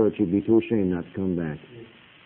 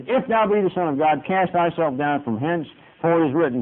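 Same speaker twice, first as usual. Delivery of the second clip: the devil tempting; 6 semitones higher, 3 dB louder than usual. Acted. Preacher voicing the devil quoting scripture, high and taunting. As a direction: lift the voice high and drag it out like the devil. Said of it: "what the devil says when he speaks".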